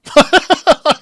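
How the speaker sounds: sudden high laugh he can't suppress; burst of laughter. Real, not acted. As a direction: crack up mid-sentence. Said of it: "I can't even say it with a straight face".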